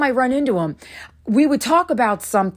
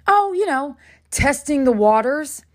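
higher, feigned-innocent comeback; retold knowing jab, pitched up; mock-casual retort; 4 semitones higher than usual. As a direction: toss his casual tone back at him. Acted retort to friend.

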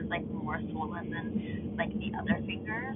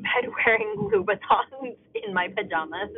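laughing; 2 semitones higher, 8 dB louder than usual. Real, not acted. Laughing at own outfit.

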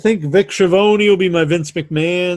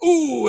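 high, pained "ooh"; mock pained groan; 9 semitones higher than usual. Imitates groan after a kick.

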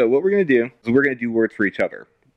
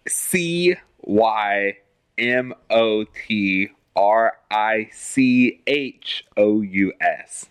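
spelling it out; much slower than usual. Shown as a demonstration.

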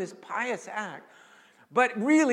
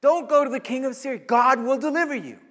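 pleading high and loud; begging prophet; 8 semitones higher, 8 dB louder than usual. Acted. Isaiah begging the king not to seek Assyria, high pleading. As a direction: beg him not to do it. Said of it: "he's begging him".

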